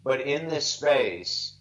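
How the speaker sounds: slow, halting, choked-up pauses; fighting to stay composed, real grief; holding back tears. Real, not acted. Son of a dying mother telling the interviewer, slow and tearful. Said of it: "it's fine that I'm emotional".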